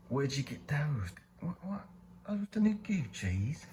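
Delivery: high, amazed double take; surprised. Acted. Passerby spotting new sneakers, high and surprised. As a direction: gasp at the shoes like they're designer. Admiring passerby spots the shoes.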